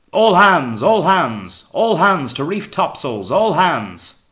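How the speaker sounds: high, loud drawn-out call; cried order. A narrator's reading. Calling all hands to reef topsails, high loud cry. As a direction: bellow it across the whole ship. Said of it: "The cry of".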